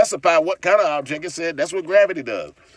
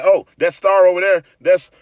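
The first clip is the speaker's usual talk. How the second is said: mocking know-it-all; 5 semitones higher, 6 dB louder than usual. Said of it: "Somebody say".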